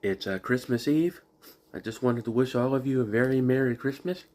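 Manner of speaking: talking around a cough drop; sucking a hard candy. Real, not acted. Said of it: "I've got a cough drop in my mouth".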